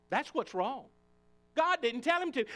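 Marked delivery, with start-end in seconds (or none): 1.5-2.4 higher, louder, hit God; loud repeat. Shown as a demonstration. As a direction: ring it out the second time. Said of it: "but God didn't tell him to".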